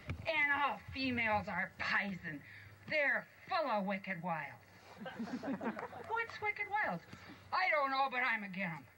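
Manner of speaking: a hint of a grumbling old dwarf; grumpy dwarf. Grumpy grumbling to the others about females. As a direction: grouse about it stubbornly.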